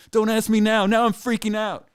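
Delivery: put-on high, loud, frantic girlfriend; panicked shout. Girlfriend in the tub panics at the question, high frantic shout. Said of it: "And she goes".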